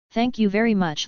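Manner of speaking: flat, deadpan thanks; monotone voice. Acted. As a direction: say it in a monotone voice with zero feeling. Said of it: "said with a completely monotone voice".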